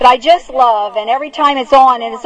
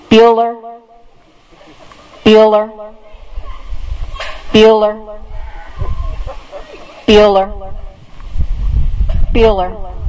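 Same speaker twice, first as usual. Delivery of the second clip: deadpan monotone roll call, long waits between names; Ben Stein monotone; 2 semitones lower, slower than usual. Retold or imitated. Homeroom teacher calling roll for an absent student, droning monotone. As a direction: call the absent pupil's name on one unchanging note. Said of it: "in his signature monotone".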